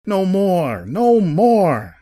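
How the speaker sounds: high, loud wailing plea; anguished cry, rising well above normal; distressed protest. A narrator's reading. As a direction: draw it out high and loud, pleading. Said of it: "as the man muttered".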